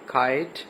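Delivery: کائٹ with a long "eye" vowel. Shown as a demonstration. Teacher showing the long vowel sound, long "eye" in کائٹ. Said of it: "long وال کی آ رہی ہے".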